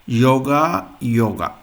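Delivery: yoga with a y sound, said twice; pronunciation example. Shown as a demonstration. Teacher showing Y sounds almost the same, pronunciation example. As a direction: model yoga, rising first, then falling. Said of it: "the pronunciation is almost same".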